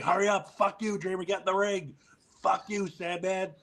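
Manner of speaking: high, exasperated mock urgency; frantic imitation. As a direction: imitate someone desperately rushing the others. Sabu cursing slow entrances, retold.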